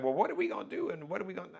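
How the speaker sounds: retold nervousness. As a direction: lightly mimic someone fretting before going on. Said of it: "I'm a little nervous".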